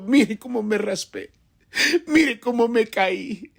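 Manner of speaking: hammed-up tearful kid accusing his parents; whiny crying child. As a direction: play the scraped child wailing at his parents. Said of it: "se sienta en el sofá llorando y dice".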